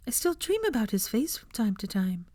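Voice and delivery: whispered, near tears; tearful whisper. A narrator's reading. Luna recalling the cellar, in a tearful whisper. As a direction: hush it like a painful memory. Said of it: "eyes becoming glassy with tears".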